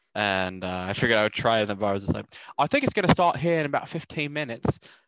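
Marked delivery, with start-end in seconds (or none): 2.5-4.7 high-pitched attempted put-on English accent. Retelling a bar story, the speaker repeats his own line in a put-on english accent. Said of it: "can I get away with doing an English accent".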